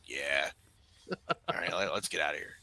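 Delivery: mumbled imitation of someone half asleep; imitating sleepy friend. Retelling a dozing friend agreeing to leave, imitated sleepy. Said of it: "you seem really tired".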